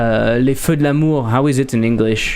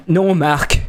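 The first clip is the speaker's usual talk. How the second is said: a hint of the theatrical dubbed-American French accent; over-the-top French dub; 4 semitones higher than usual. Mocking American shows dubbed into French, dramatic French dub. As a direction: ham up a soap opera dub, a bit higher. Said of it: "They have a very distinct way of speaking French".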